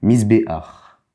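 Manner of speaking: "Mise, B, ar" spelled out slowly, syllable by syllable; slow it right down so beginners catch each sound; slow demo reading. Shown as a demonstration. Teacher spelling the word out slowly for beginners. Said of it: "D'abord le A, ensuite le ret".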